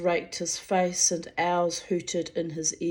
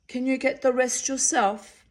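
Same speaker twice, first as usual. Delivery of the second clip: sentry voice; 6 semitones higher than usual. A narrator's reading. Sentry voice continues.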